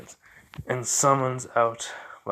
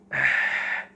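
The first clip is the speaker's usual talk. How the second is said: heavy, voiceless huff; exasperated sigh; 3 dB louder than usual. Acted. Zabuza replying to the teasing woman, exasperated sigh. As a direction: blow out an irritated breath.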